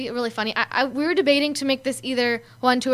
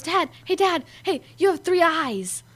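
put-on loopy kid; 5 semitones higher than usual. Quoting loopy David.

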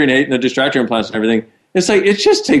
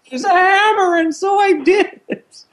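very high, silly loony voice; mock nut job. Host mimics a nut job blaming Gary, high and goofy. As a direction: play a nut job in squeaky high pitch. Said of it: "nut jobs who will go".

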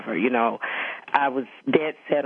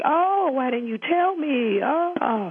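much higher, slow mock-delighted father; gushing dad; 12 semitones higher, much slower than usual. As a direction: overdo the thrilled parent, drawn out. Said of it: "And it was like".

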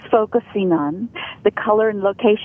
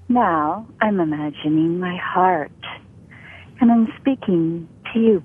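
heart voice; 4 semitones lower than usual. Shown as a demonstration. Voice coach speaks from the heart to the host and listeners, warm. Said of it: "You can feel that warm embrace".

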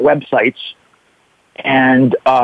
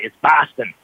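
Boston accent; 2 semitones lower than usual. Shown as a demonstration. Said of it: "That's a little Boston accent".

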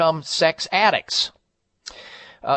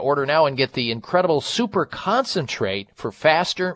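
hard sell ad. Acted. Host reads a Provia ad.

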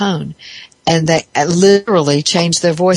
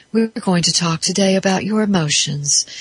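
therapist voice caricature; 2 semitones higher than usual. Retold or imitated. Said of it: "where you talk this way".

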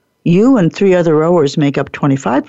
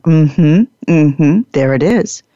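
knowing watcher; 3 semitones lower than usual. Retold or imitated. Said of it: "and they're saying".

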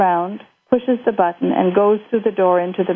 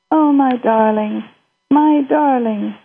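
tender, sorrowful; 5 semitones higher, slower than usual. Acted. Mother grasps grandma's relapse.

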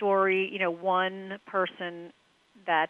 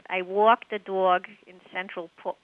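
attempted New York accent; slower than usual. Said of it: "All I know is".

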